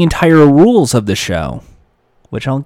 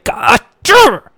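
gotcha; 10 semitones higher than usual. Retold or imitated. Host springs the joke.

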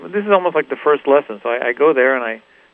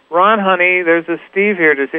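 higher-pitched call over her shoulder; woman calling to partner; 5 semitones higher, 4 dB louder than usual. Retold or imitated. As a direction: imitate a woman calling into the next room. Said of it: "leans over her shoulder and goes".

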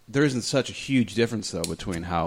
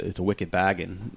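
mock Boston accent; 3 semitones lower, 4 dB quieter than usual. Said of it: "Wow, that was terrible".

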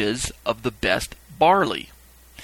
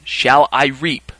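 very slow, louder question; calling out; 5 dB louder, much slower than usual. Acted. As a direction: stretch it out ceremonially. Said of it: "ask a final question".

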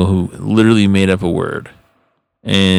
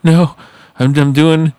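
mock protest; 8 semitones higher, 4 dB louder than usual. Retorting to heart monitor.

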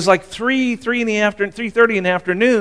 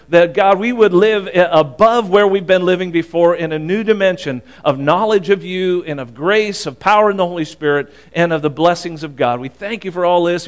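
earnest spoken prayer to God. Acted. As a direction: pray it aloud over the congregation.

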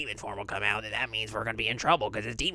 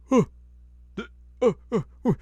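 higher, rising "oh no" in hammed-up alarm; mock panic; 12 semitones higher, 7 dB louder than usual. Totosai about to be bonked, hammed-up rising panic. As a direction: squeak out a comic "oh no" as trouble dawns. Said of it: "He's like".

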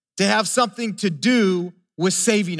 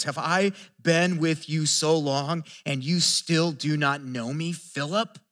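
softer, slow, disappointed rebuke; pained rebuke; 4 semitones lower, 4 dB quieter than usual. Retold or imitated. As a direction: let the hurt and disappointment show quietly. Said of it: "you can almost just hear the pain".

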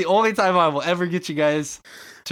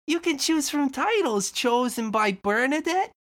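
shopkeeper voice; 8 semitones higher than usual. Acted. Shopkeeper shows the store.

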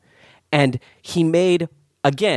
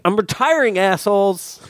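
bitter, spat through teeth; through gritted teeth; 4 semitones higher than usual. Retold or imitated. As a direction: grumble it through clenched teeth. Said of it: "through his teeth".

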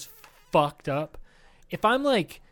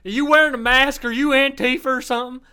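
higher, louder rowdy redneck yell; hammed-up redneck picking a fight at the bar; loud mock redneck confrontation; 9 semitones higher, 6 dB louder than usual. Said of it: "I sound like a fucking redneck".

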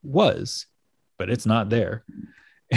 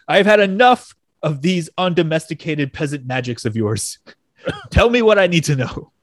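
mock-exasperated demand, pitched up at the end; frustrated Doom; 3 semitones higher than usual. Podcaster retelling Victor's demand for answers, mock frustrated. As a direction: act out a fed-up villain's outburst, lightly. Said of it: "I can see Doom getting really frustrated".

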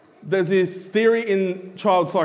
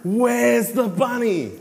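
playful peekaboo voice; slower than usual. Retold or imitated. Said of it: "And I go".

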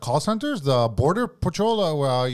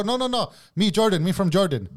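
higher, mock Jordanian broken English; broken-English foreigner act; 4 semitones higher than usual. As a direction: play a confused foreigner. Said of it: "he switches his dialect".

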